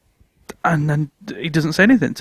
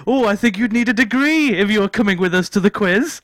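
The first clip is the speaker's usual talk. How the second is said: piping up; 3 semitones higher than usual. Retold or imitated. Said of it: "he just pipes up and goes".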